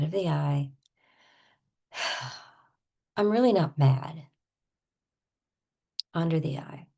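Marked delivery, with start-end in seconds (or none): 3.2-4.3 sighing mock denial; sigh, then play at being exasperated; mildly acted frustration; pretend exasperation. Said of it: "I'm gonna start with pretending".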